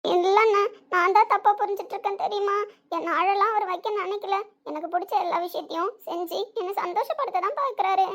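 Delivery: tearful, earnest pleading. Acted. Sister defends husband to her brother, tearful. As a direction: defend him while holding back tears. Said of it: "உன்னை அழ வைக்கிற".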